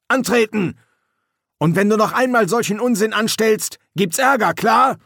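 high, loud barking drill commands; barked orders. A narrator's reading. Sergeant ordering troll and corporal, loud barked commands. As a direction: bark the orders across the yard.

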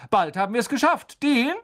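quick, high rallying call; Lupin. A narrator's reading. Teacher cheering class on and summoning Dean, calling out. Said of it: "rief Lupin".

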